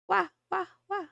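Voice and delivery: high-pitched playful cat mews; meowing. Pretend. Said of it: "Good meowing".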